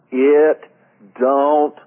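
loud, high yell from the top of the lungs; re-enacted yell. Preacher yelling to his congregation, loud and high. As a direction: belt it out, drawn-out and full-lunged. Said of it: "literally yelled from the top of my lungs".

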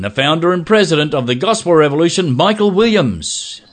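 measured presenter's opening, building to the guest's name; podcast host intro. Acted. Host welcomes podcast listeners and introduces the founder, announcer style. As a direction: announce the show, stretching out the final name. Hosts the scripted show opening.

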